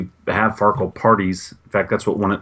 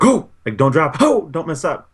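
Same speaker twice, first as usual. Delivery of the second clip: retold taunting yells; 8 semitones higher than usual. Adults heckling each other over a game, high mock yells. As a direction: imitate excited yelling in a much higher voice. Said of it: "yelling behind each other".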